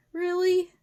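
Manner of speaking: high, loud creature voice; wolf calling out. A narrator's reading. Wolf challenges professor through the door, loud and high. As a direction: call a sharp, high challenge. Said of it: "called the wolf".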